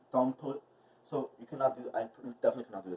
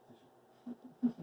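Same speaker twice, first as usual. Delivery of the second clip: much higher, drawn-out Sushi; sing-song call; 12 semitones higher, 4 dB quieter than usual. Shown as a demonstration. Owner calls her dog Sushi in a high sing-song.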